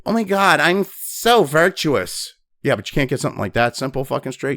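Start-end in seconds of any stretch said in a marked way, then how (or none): 0.0-2.3 mock smug virtue.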